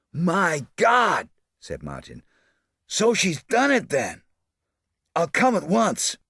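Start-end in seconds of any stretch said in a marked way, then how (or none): 0.1-1.3 high, loud startled cry; gasped in shock; startled exclamation. A narrator's reading. Martin hears of the murder on the phone, startled. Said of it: "startled exclamation". 2.9-6.2 high, hurried shocked outburst; a hint of alarmed triumph. A narrator's reading. Martin on the phone, shocked by the news. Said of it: "startled exclamation".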